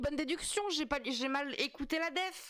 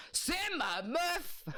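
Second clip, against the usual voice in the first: laughing; 5 semitones higher, much slower than usual. Real, not acted. Proud laughing exclamation.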